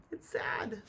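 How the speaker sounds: breathy whispered aside. Real, not acted. Teacher to class, whispering the sad look. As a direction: drop to a hush on the feeling.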